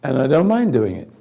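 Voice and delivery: raspy, gargling voice; rough voice like gargling; hoarse gargly voice. Real, not acted. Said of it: "Sounds like I'm gargling".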